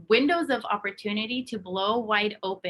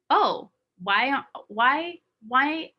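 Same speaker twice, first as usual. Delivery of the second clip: mock puzzled; 4 semitones higher, 3 dB louder, much slower than usual. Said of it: "And be like".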